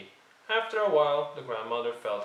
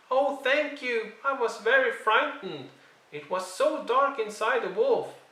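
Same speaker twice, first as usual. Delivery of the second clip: put-on much higher, louder little girl voice; little girl crying out; 12 semitones higher, 5 dB louder than usual. A narrator's reading. Girl freed from the wolf cries out to the huntsman, high and loud. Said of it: "jumped out and cried".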